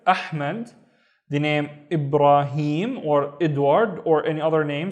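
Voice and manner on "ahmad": "Ahmad" with glottal onset and Arabic h. Shown as a demonstration. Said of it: "starts with hamza and then alif".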